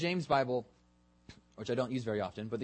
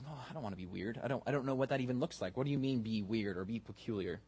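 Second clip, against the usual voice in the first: mock reluctance; 4 dB quieter, faster than usual. Preacher voicing reluctant churchgoers, mock hesitant. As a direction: play someone backing away from the idea. Acts out congregation's reluctant reply.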